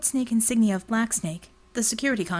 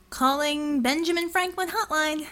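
higher, mock-formal call into the alley; pitched-up mock announcement; announcing; 6 semitones higher than usual. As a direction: announce it like a host. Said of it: "she announced to the empty alley".

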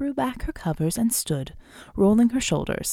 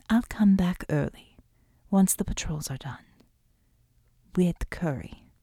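tender whisper; 3 semitones lower than usual. Acted. Shakti soothes before leaving.

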